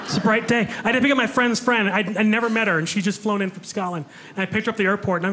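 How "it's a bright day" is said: like everything is lovely; floaty cheerful daydream; dreamy happy mood. Retold or imitated. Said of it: "that accent puts you in a good mood".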